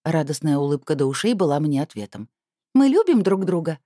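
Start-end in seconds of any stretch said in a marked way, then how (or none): 2.8-3.8 plain declaration. Acted. Girl declares love.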